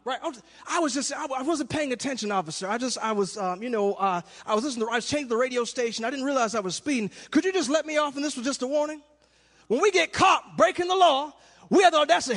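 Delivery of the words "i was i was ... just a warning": a hint of a nervous driver, quieter; pleading with officer. Preacher playing a speeder making excuses to the officer, softly pleading. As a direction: mumble excuses softly to the cop.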